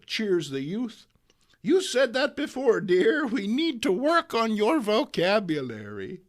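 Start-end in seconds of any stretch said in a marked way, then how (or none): 1.6-6.2 high, gently chiding granny; old lady teasing. Acted. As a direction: correct the youth lightly. May scolds youth.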